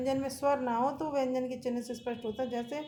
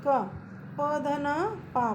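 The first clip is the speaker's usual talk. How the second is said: slow spelling; 2 semitones higher, much slower than usual. Shown as a demonstration. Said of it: "पूरा हो गया".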